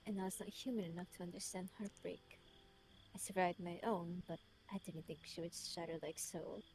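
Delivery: put-on measured British-accented letter reading; his British voice. Reading his letter aloud in character, British voice. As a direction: read it as a self-reproaching British man. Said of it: "Let me read it in his voice".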